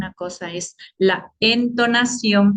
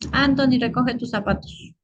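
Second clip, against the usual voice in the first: higher-pitched mock command to a child; orden de ejemplo; 4 semitones higher than usual. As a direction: call out a mild order, pitched up. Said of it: "Puede ser una orden". (orden fingida, en tono más agudo)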